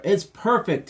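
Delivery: high, loud shout of joy; Papa shouts it's perfect; excited shout. Acted. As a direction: shout it with delight. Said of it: "he shouted".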